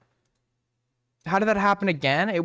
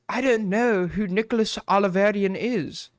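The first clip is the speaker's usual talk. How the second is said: put-on British accent. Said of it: "pretending to be a British guy".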